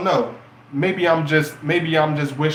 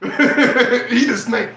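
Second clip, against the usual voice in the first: laughing; 6 semitones higher, 4 dB louder, much slower than usual. Real, not acted. Laughing repeat of punchline.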